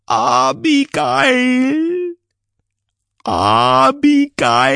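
slow, eerie drawn-out calling; deep, dark voice. Acted. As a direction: call the name like a lurking ghost. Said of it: "rief eine tiefe und düstere Stimme".

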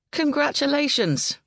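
high, bright burst of joy; excited congratulations. Acted. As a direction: cheer her on, thrilled. Rob swinging her around.

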